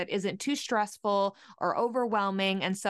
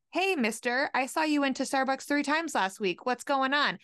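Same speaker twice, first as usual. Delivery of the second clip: teasing jab; 4 semitones higher than usual. Retold or imitated. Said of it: "to say".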